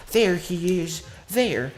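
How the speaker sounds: high, loud mock old lady pointing him out; a lightly voiced accusing old neighbor; old lady's voice. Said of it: "she has a smoker's voice".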